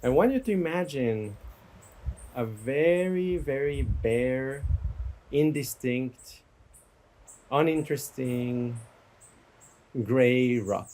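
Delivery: guided meditation. Real, not acted. Teacher guiding listeners to imagine a gray rock, guided meditation. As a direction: let each image settle before the next. Leads a guided imagery exercise.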